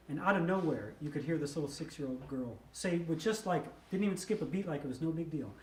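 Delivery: ordinary talk, nothing marked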